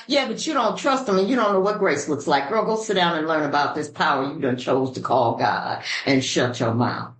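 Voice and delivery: lightly voiced no-nonsense sponsor, sinking low; Betty T. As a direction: channel a stern sponsor setting someone straight. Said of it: "That was Betty T that just came out".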